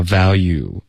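value with no l, "va-you"; L left out. Shown as a demonstration. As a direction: say value skipping the l sound. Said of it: "不可能会发".

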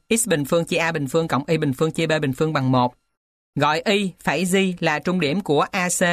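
ordinary talk, nothing marked

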